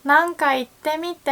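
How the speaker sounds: high, surprised mock question; surprised friend. Friend surprised the learner speaks Japanese, high and eager. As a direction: play the amazed friend. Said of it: "your friends probably would say".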